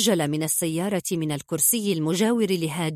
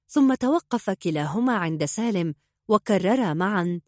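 ordinary delivery, nothing marked

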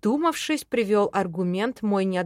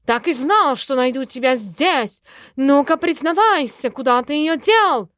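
loud, high accusing cry; triumphant loud accusation; accusing shout; 5 semitones higher, 7 dB louder than usual. Acted. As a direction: storm in demanding answers. Cat bursts in accusing the elf.

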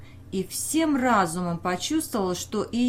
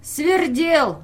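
high, loud taunting Свердел; mocking; 7 semitones higher, 6 dB louder than usual. Peasant teasing the official with his nickname, mocking and loud. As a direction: fling the name Свердел up high and loud in mockery. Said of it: "как бы издевался".

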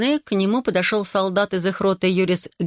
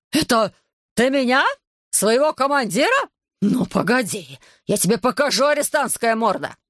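choking rage; 5 semitones higher than usual. Acted. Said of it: "задохнулся от ярости капрал".

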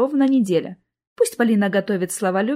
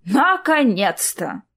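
glad relief; much slower than usual. Acted. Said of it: "обрадовалась Клара".

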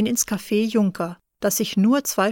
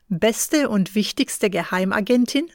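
"Beste" stressed, the phrase rising in mock wonder; amused disbelief. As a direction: tease him by echoing the boast. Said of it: "Dann lacht sie". (spöttisch ungläubig wiederholt)

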